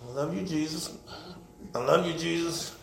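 very soft, low mumbled prayer; mumbling under breath. Acted. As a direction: mumble it timidly so nobody hears. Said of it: "mumbling under our breath".

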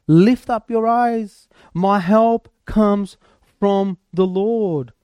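slow, drawn-out exhortation; slow preaching. Acted. Preacher urging the congregation to look up, slow. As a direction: lift them up word by word.

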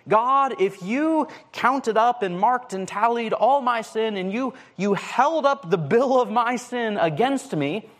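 pleading psalmist. Acted. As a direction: ask God who could ever stand.

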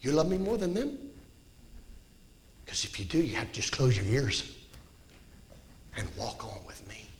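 soft, low, pleading voice of Jesus; Jesus speaking to Peter. Acted. Jesus asking Peter softly, tender pleading.

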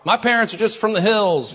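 high, loud mock excuse. Mocking a churchgoer excusing harsh judgment, loud. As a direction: ham up a self-justifying churchgoer, high and loud. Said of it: "Be careful that you don't use your own".

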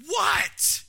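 a high, loud, startled "What?"; husband startled by his wife's call while driving. Retold or imitated. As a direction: jump at her call, startled. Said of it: "I'm like".

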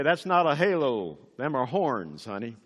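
light imitation of a southern drawl. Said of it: "with his own southern drawl".

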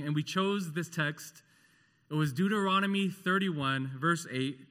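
ordinary talk, nothing marked

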